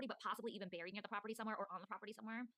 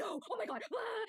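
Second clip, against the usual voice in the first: higher and louder, building to a scream; panicked shriek; 12 semitones higher, 5 dB louder, slower than usual. Retold or imitated. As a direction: mimic friends freaking out in the dark. Friends freaking out, retold.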